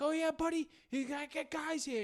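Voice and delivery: put-on high, sarcastic old-man voice; lightly hammed-up crew boss taunting the driver; mocking old guy. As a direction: needle him in a high mock tone. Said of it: "the guy's like".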